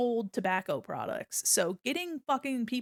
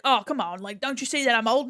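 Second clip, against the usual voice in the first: imitating a whiny customer; 3 semitones higher, 6 dB louder than usual. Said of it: "and he's like".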